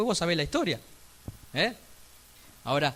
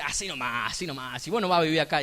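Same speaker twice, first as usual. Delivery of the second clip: sarcastic humor; 3 semitones lower, faster than usual. Retold or imitated. Uncle the builder joking about a sloppy job, dry sarcasm. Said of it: "con sarcasmo, con mucho humor".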